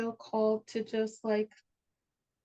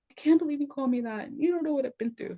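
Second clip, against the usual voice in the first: quoting mom; 8 semitones higher, 4 dB louder, faster than usual. Retold or imitated. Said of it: "she's like".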